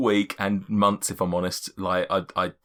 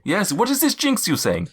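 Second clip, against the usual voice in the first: cloud giant's voice. Acted. Cloud giant warning the party about giants, stately. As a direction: lay out the giant races gravely.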